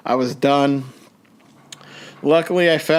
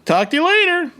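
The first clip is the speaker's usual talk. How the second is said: rushed goodbye; 5 semitones higher than usual. Retold or imitated. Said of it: "told my girlfriend".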